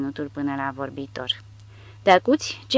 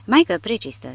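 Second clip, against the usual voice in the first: louder exasperated bellow; 5 semitones higher, 5 dB louder than usual. A narrator's reading. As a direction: yell it to the ceiling. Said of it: "zbieră Haide".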